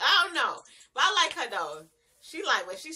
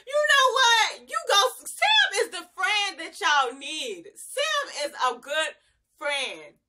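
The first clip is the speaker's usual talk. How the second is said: much higher, louder, slow cheer; cheering for Sam; 6 semitones higher, 4 dB louder, slower than usual. Retold or imitated. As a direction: hype the friend up, half-shouting. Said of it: "I was like".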